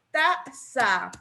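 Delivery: "taza" split into ta, za; syllable by syllable. Shown as a demonstration. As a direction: say "taza" as two separate syllables. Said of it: "cómo la separo".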